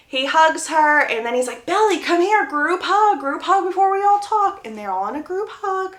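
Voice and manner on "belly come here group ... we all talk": high, upbeat calling over; eager summons. Retold or imitated. Jeremiah calling Belly into a group hug, eager. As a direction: imitate someone rallying everyone for a hug.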